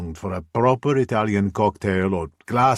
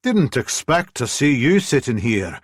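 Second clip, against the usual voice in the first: a light Scottish lilt, a bit higher; chatty Scottish landlady greeting a regular; Scottish brogue; 5 semitones higher, 4 dB louder than usual. Acted. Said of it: "her thick Scottish brogue".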